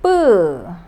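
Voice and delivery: 뿌 as a tight, unaspirated pp with u; tense Korean 뿌. Shown as a demonstration. Teacher explaining the double B, tense 뿌. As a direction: pop 뿌 with tense lips. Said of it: "you got to pronounce it as".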